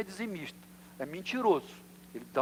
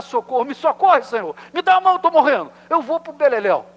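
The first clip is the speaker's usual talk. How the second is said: loud, higher panicked yell to the Lord; desperate cry for help; 7 semitones higher, 10 dB louder than usual. Retold or imitated. Peter sinking, calling out to the Lord: panicked yell. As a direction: shout it like a man sinking into the water. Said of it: "Tem que gritar".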